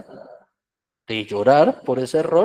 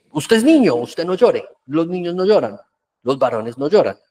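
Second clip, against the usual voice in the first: stern macho parent; 2 semitones higher, 3 dB louder than usual. Retold or imitated. Macho parent forbidding boy's tears.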